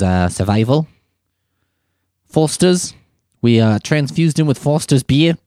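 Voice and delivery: lightly put-on Australian accent of an interviewee; mock Australian accent. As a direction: imitate an Australian wildlife spokesperson. Mimics the Australian wildlife woman's interview.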